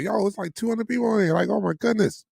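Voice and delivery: high, fast excited squeal; thrilled squeal at the crowd. Retold or imitated. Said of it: "I was like".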